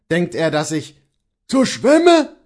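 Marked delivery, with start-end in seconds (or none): 1.5-2.3 very high, loud, scornful echo; incredulous shout. A narrator's reading. Bailiff echoes the servant's excuse, incredulous shout. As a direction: shout the words back in outrage. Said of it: "ruft der Schlossvogt".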